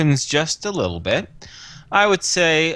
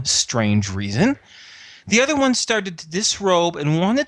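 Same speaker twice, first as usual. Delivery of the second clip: aggrieved, pitched-up retelling of events; indignant account; 6 semitones higher than usual. Acted. Host protesting to the inspector about uninvited visitors, indignant. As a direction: defend yourself with rising indignation.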